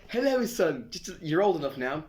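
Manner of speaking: solemn parent voice, half laughing; parent breaking news. Pretend. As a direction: play the parent, cracking up at the end. Parents reveal adoption to son.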